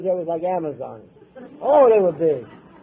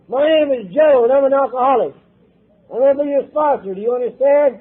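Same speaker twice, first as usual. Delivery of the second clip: firm introduction; 6 semitones higher, 8 dB louder than usual. Retold or imitated. Sponsor Joe introduces himself.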